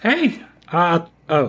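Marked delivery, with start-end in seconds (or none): 0.0-0.4 Howie's voice. Acted. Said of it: "that's not his voice".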